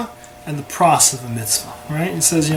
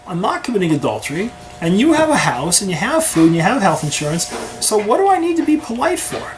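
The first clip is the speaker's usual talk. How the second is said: defensive, climbing higher to an exasperated peak; indignant husband; 3 semitones higher than usual. Retold or imitated. Husband to wife, defending neglect of small things: indignant, rising higher. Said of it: "go to your wife and say".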